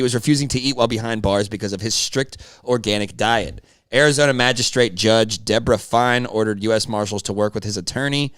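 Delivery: measured newsreader read; news voice. Acted. Co-host reads the article to the audience in a news voice. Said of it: "I got that fucking news voice".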